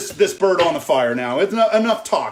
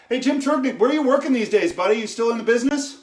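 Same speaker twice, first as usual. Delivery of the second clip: cheerful greeting; 5 semitones higher, 3 dB louder than usual. Real, not acted. Host greeting his old boss in the chat, cheerful call-out. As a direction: hail a friend across the room.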